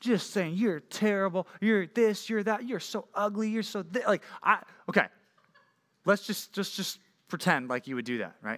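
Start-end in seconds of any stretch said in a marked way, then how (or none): 0.5-4.1 mild, half-yelled delivery. Acting out someone yelling insults at a baby in a stroller: imitating someone yelling insults. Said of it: "just yelling at her".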